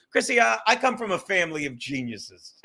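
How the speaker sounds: pompous claim that keeps cracking into laughter; mock boast, laughing. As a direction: try to say it straight and fail, laughing. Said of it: "imagine if I said to you".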